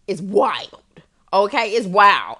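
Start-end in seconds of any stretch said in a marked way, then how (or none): 1.3-2.4 whispered, drawn-out aside. Real, not acted. Host telling listeners the promo price is wild, whispered. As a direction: breathe it like a secret.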